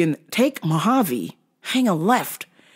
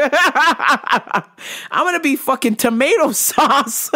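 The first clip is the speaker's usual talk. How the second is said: slow words broken by laughter; can't stop laughing while saying it; real laughter, slowed delivery; laughing through it; 6 semitones higher, slower than usual. Real, not acted. Laughing at her own joke.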